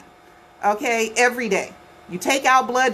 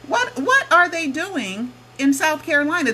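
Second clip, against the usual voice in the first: higher, insistent repeat, still baffled; puzzled question; 6 semitones higher than usual. Real, not acted. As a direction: press the question once more.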